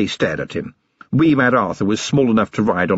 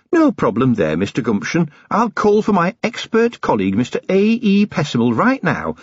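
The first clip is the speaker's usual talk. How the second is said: higher, sweetly helpful officer's voice; lightly voiced helpful officer; 4 semitones higher than usual. Officer offering an auditor to a nervous dealer, sweetly helpful. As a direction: politely threaten under a show of helpfulness.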